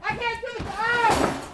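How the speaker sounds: high, loud panicked cry; panicking. Acted. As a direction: fall apart in stage fright. Stage fright panic.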